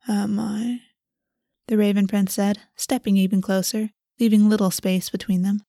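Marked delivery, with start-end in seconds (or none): 0.1-0.8 unvoiced, teasing whisper. A narrator's reading. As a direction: breathe the question. Prince whispers reply.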